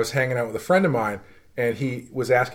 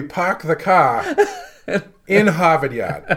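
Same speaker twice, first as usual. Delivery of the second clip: hammed-up Boston accent, R's dropped; raised-pitch parody of Boston speech; 5 semitones higher, slower than usual. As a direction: drop every R like a Bostonian, amused. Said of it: "communicate is through Boston accents exclusively".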